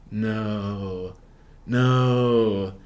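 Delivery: long, held-out "no"; drawn-out dread. Retold or imitated. Friends seeing the same cops arrive, drawn-out dismay. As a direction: stretch it out in mock dismay.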